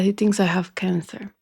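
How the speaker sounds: hushed whisper of frightening news; whispering what the doctor told her. Real, not acted. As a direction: breathe it out like a secret fear. Telling of a cancer scare.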